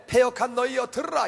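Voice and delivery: high-pitched angry summons; acted anger. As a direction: call the rebels to attention in anger. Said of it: "화가 난 김에".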